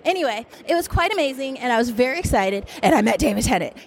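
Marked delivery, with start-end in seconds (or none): 2.8-3.8 happy tears breaking through; crying with joy, voice wobbling; tearful. Real, not acted. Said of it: "moved to great emotion".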